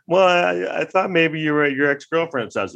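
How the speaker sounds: mock suspicious suggestion; questioning girlfriend. Girlfriend raising the ex-girlfriend's house, mock suspicious. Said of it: "you come home to your girlfriend's place".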